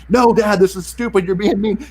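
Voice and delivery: put-on high, loud teen complaint; annoyed daughter. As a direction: snap back like an irritated teenager. Daughter texting back annoyed.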